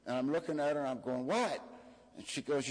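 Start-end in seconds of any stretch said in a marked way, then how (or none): 1.2-1.6 high, startled question; groggy surprise, pitched up; confused what. Retold or imitated. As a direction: blurt it out half awake, puzzled. Waking confused on a plane.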